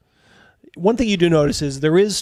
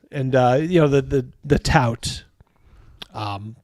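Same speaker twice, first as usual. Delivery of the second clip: usual speaking voice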